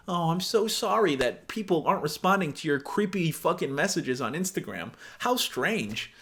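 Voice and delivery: mock-sorry, softening as it goes; lightly hammed-up fake concern; sarcastic sympathy. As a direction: feign pity to needle him. Acts her sarcastic sympathy.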